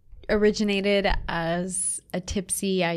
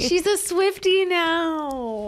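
teasing; 10 semitones higher, 6 dB louder, much slower than usual. Real, not acted. Teasing friend.

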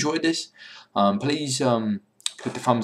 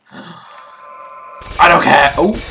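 very slow stretched-out line; meme quote voice; 5 semitones higher, 8 dB louder, much slower than usual. Retold or imitated. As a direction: stretch each word out lazily. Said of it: "I think that's from Pootie".

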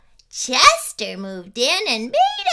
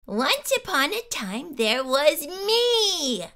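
smug storyteller; 6 dB quieter than usual. Acted. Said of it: "it goes something like this".

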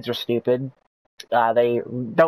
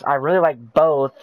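sarcastic. Acted.

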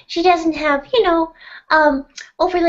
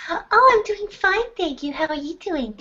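a lightly sugary, polite character voice; sweet put-on voice. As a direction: play a sweet, polite girl gently. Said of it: "you have such a lovely voice".

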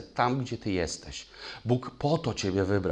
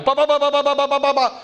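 mock gunfire; 10 dB louder, faster than usual. Imitating gunfire in a shootout story.

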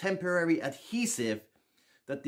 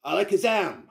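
magic word; 4 semitones higher, 4 dB louder than usual. Pretend. Magician casting trick spell.

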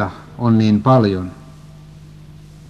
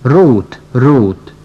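put-on a louder, despairing call for a lost child; desperate calling; 3 dB louder than usual. A narrator's reading. Mother calling for her missing daughter, desperate cry. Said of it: "huutaa toivottomasti".

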